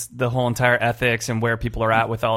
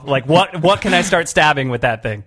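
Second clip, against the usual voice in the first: excited. Retold or imitated. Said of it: "You're like".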